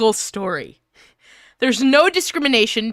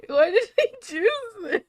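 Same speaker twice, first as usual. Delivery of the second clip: high, fast, laughing despair; laughing wail; 9 semitones higher, 4 dB quieter, faster than usual. Real, not acted. About to read a cringe fic aloud, laughing in despair. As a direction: wail it through laughter at your own choice.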